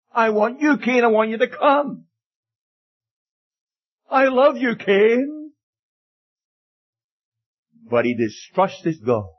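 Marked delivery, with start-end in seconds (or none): 0.1-5.5 high, earnest appeal to a loved one; tender pleading. Acted. God pleading with wayward Cain.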